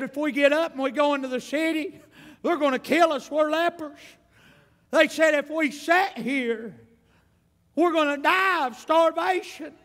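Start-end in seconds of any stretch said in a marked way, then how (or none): 0.0-4.0 higher, urgent leper's plea, a bit quick; desperate lepers. Retold or imitated. Lepers voiced in sermon story. 5.3-9.7 higher, urgent leper's plea; desperate lepers. Retold or imitated. Lepers voiced in sermon story.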